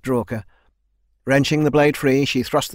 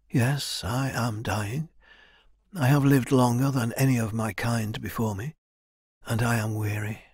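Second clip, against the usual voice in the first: soft, measured resignation; weary dying elder; 3 dB quieter than usual. Acted. Elder confesses to Kai that death nears, weary. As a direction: let the phrases sink as a tired old mentor.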